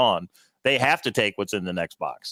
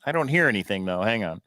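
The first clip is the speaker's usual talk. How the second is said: sounding underwater. Real, not acted. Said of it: "you sound like you're underwater".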